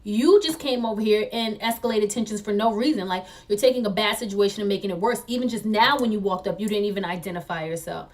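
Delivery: mildly heated argument, pushed and emphatic; re-enacted indignant protest; retold yelling back. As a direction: argue the point forcefully, short of a real yell. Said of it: "So I'm yelling back at her".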